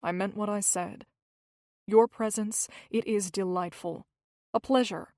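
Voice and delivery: mean every word, calmly; steady voice. Acted. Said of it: "in a steady voice".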